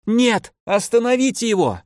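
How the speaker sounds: high, desperate cry to stop him; frantic scream. Acted. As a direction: shriek out in alarm. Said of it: "внезапно закричала Чехова".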